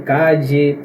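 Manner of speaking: calle with a dj sound, ca-dje. Shown as a demonstration. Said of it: "Alguns países pronunciam". (calle com som de DJ)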